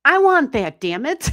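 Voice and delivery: high, loud, playfully covetous whine; hammed-up mock jealousy; mock envy. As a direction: pretend to be jealous of the name. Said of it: "and I'm like".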